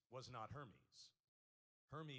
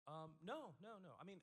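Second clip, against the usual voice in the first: ordinary talk, nothing marked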